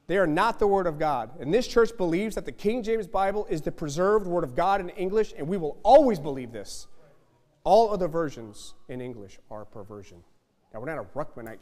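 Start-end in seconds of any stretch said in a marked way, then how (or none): 0.1-1.4 the same line again, pushed louder; louder repeat. Real, not acted. Preacher hammering it home to the congregation, louder. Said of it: "repeated louder for emphasis". 1.4-10.2 loud, hammering declaration; forceful preaching. Real, not acted. Preacher declaring doctrine to his congregation, loud.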